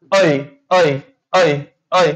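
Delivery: "ऐ" repeated as a separate, held diphthong; demonstrated vowel. Shown as a demonstration. Teacher showing the resulting sound to students, deliberate "ऐ". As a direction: sound out "ऐ" as a glide from a to i. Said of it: "इथं उच्चार कसा होतो".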